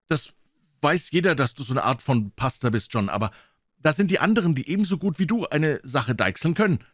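Israel's voice. Acted. Israel character voice.

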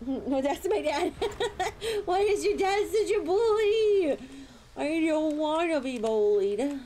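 giggling mock complaint; whining laughingly about Arya's dad; laughing whine. Real, not acted.

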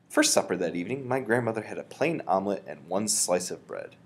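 steady storybook reading voice; calm read-aloud narration; story narration. A narrator's reading. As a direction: read it out like a teacher to the class. Teacher narrates the book.

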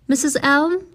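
a frightened question to the librarian; lightly voiced Nora, uneasy; anxious call. A narrator's reading. Nora calls in the dark.

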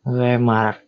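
Lemar, caramel said backwards; backwards speech. Shown as a demonstration. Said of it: "I'm going to pick caramel".

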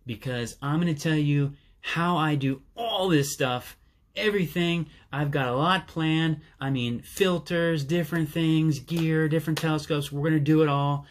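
genuinely thrilled about all that's planned; excited. Real, not acted. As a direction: enthusiastic build, listing everything to come. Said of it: "Sorry, I'm excited".

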